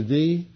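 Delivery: "thee" lifted and leaned on; stress on thee. Shown as a demonstration. Preacher marking the missing article, "thee" stressed. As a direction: hit "thee" with a rising lift. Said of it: "notice how I italicize the".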